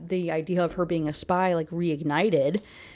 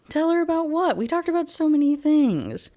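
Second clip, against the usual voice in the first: high, louder, playful feigned innocence; teasing innocence; 10 semitones higher, 5 dB louder than usual. A narrator's reading. Grinning sister dodges her angry brother's question, teasing. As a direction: toy with him, grinning. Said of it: "Her mouth spread into a grin".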